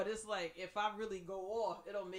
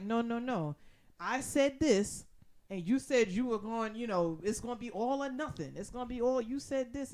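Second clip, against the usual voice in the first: arguing man; 3 semitones higher, 5 dB louder than usual. Retold or imitated. Quoting the arguing hoarder man.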